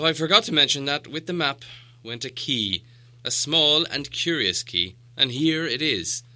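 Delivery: the wizard slowing on the key; sly wizard. Acted. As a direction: produce the key with a flourish. Gandalf gives the key.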